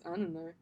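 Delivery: "I don't know" slurred into one quick "a-nə-no" in her own Australian accent; slurred together. Shown as a demonstration. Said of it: "something I say a lot is".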